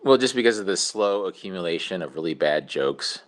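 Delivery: lightly put-on host announcing his own demise; podcast voice. Host sending a joke message from beyond, mock podcast voice. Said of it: "I'm sorry for my podcast voice".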